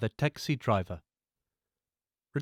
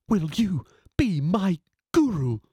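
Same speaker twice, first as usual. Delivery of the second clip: slow whisper, pleading; whispered plea; 5 semitones higher, 4 dB louder, slower than usual. Acted. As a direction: ask him to be your guru in a hush. Humble plea to the driver.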